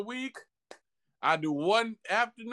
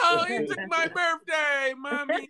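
put-on whiny crying kid; 6 semitones higher than usual.

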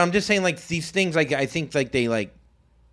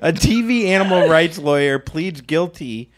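news read. Acted. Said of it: "reading the headline".

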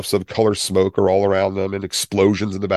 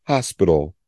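gentle. Shown as a demonstration. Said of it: "how nice that is".

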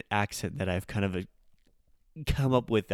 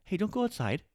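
scolding; 10 semitones higher than usual. Retold or imitated. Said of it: "which would be like".

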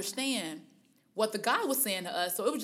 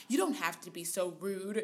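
hurt reply; 3 semitones lower, 5 dB quieter than usual. Retold or imitated. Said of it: "the lady was like".

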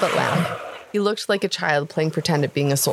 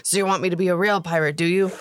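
menacing. Acted. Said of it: "Cook spoke in a menacing, dead tone of voice".

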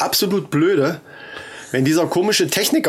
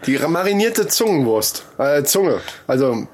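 butcher voice; 2 semitones higher than usual. Pretend. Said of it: "rede wie ein Fleischverkäufer".

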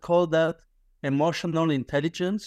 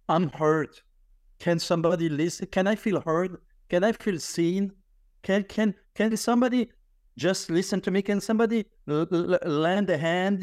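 pleading for help; 3 semitones higher than usual. Retold or imitated. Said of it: "to send an S O S signal to say".

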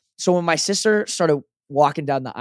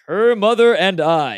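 louder, slow, booming mock-solemn line; joking loud; 4 semitones higher, 4 dB louder, slower than usual. Dad jokes through the rehearsal line, booming. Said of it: "kinda joking around, saying it loud".

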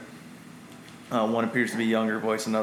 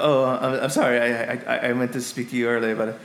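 flustered, stammering wizard excuse; apologetic old wizard. Acted. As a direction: stumble through an apology as a muddled wizard. Plays apologetic wizard Zephyros.

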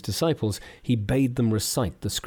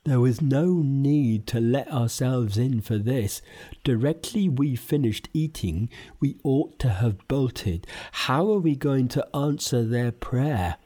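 lightly raised Pigsy voice; Pigsy frets to Monkey, lightly raised voice; Pigsy whispering; 2 semitones higher than usual. Acted. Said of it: "whispered Pigsy to Monkey".

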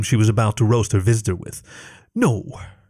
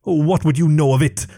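spat retort; 5 semitones higher than usual. Acted. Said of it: "she spat".

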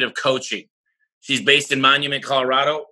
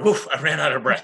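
laughing; 2 semitones higher than usual. Real, not acted. Host laughs at himself.

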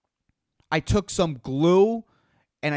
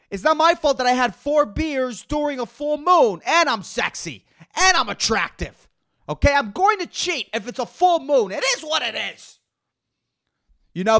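raised, whiny self-justifying; whiny high excuse; 6 semitones higher, faster than usual. Acted. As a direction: whine like a guilty boyfriend.

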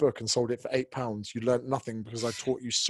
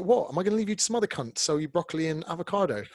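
incredulous retort; 5 semitones higher than usual. Retold or imitated. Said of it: "And I was like".

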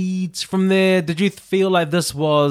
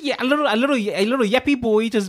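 mocking tone; 7 semitones higher, faster than usual. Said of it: "I just saw an angry boy".

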